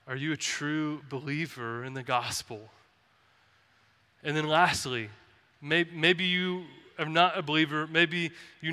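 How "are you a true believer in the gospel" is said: soft, caring question; lovingly. Shown as a demonstration. Pastor asking listeners tenderly about faith. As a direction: ask gently, softer. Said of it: "So I would just lovingly say".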